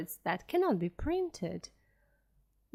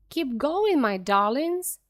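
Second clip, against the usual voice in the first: panting; 3 semitones higher, 4 dB louder than usual. Acted. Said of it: "panted Mister Fox".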